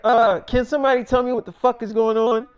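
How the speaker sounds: acted upset, demand an explanation; thoroughly upset. Upset Millie confronts directors and producers, mildly irate. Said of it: "she's thoroughly upset".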